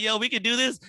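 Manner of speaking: high, loud hyped-up claim; mock eager boast. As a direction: pump it up like you just found a new game. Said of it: "black people was like".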